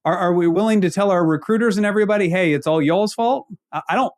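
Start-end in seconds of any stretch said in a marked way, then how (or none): 2.3-3.5 a light Ozark drawl on y'all; Ozark accent. Retold or imitated. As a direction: let a hint of Ozark accent slip in. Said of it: "that was my Ozark accent coming out with the y'all there".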